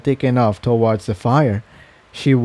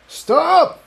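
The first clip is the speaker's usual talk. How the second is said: high, sharp command; authoritative yell; commanding shout. Acted. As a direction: stop everyone with authority. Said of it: "he shouted".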